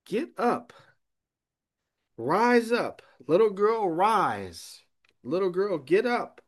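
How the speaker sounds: commanding call. Acted. Preacher voicing Jesus raising the little girl, loud commanding call.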